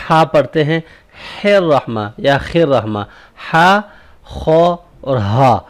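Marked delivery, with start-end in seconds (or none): 4.2-5.6 خو and ہا said slowly to contrast the throat sounds; slow letter drill; letter contrast demo. Shown as a demonstration. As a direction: compare the two throat letters. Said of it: "یہ تین different letters ہیں".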